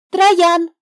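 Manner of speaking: put-on the girl slyly naming the snake; giggling hint. A narrator's reading. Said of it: "хихикнув, подсказала Ева".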